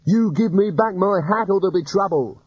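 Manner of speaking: feeble threat. Acted. Rincewind threatening weakly.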